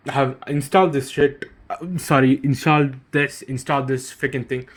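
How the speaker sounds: talking while chewing gum; words round a wad of gum. Real, not acted. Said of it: "I'm chewing chewing gum right now".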